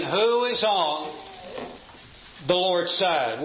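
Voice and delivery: slow, searching question to the room; pointed question. Shown as a demonstration. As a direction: put the question slowly to every listener. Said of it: "ask that question".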